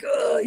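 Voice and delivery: high-pitched mock "ugh"; imitated exasperated groan. Doing Frank the Tank on Cameo, exasperated groan. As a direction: groan like a fed-up fan. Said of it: "Frank the Tank being like".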